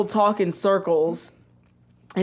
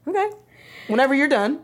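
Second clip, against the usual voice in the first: calm; 3 semitones higher, faster than usual. Retold or imitated. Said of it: "this man will sit here all calm".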